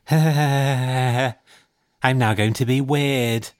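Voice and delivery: imitated freaky child, cackling round slow words; put-on cackle, then a slow, ominous announcement; freaky boy. Boy turning weird in the tent, mock-creepy cackling. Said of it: "turned round to me and went".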